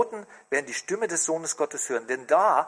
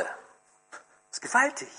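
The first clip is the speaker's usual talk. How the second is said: awed whisper; 7 semitones higher, 4 dB quieter, slower than usual. Real, not acted. Awed aside after "Alle.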